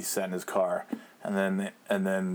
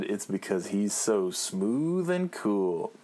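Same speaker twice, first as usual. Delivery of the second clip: slow smooth cool; much slower than usual. Retold or imitated. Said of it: "And I said".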